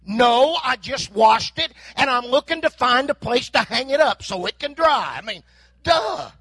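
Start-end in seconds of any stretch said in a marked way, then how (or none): 0.1-5.2 mock sarcasm. Sarcastic reply about keys. 5.8-6.3 mock duh. Punchline duh.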